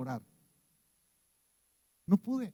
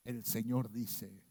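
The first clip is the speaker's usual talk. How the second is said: low, slow, hoarse prophet voice, much lower and softer; voz muy ronca; 9 semitones lower, 10 dB quieter, slower than usual. Retold or imitated. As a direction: intone it like a solemn prophet, rasping. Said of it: "con una voz así muy ronca". (voz de profeta grave y ronca, lenta)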